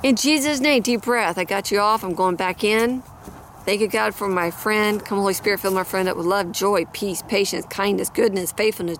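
earnest prayer, steady and even; spoken prayer. Acted. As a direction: pray it over the listener with conviction. Prays aloud for viewer.

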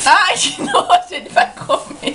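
squealing laugh of disgust; grossed out and giggling. Real, not acted. Disgusted at partner eating marshmallows. (rindo com nojo)

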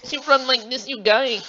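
mock Asian voice showing the run; Asian accent. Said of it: "the Asian accents that Andrew and I do".

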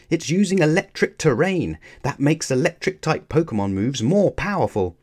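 high, urgent warning; calling out. A narrator's reading. Lily warning Ash about electric terrain, urgent call. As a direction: call the warning across to a friend. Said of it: "Lily called".

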